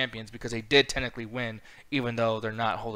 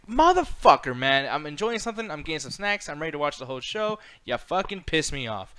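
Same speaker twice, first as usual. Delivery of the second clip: mock annoyed rant; 3 semitones higher than usual.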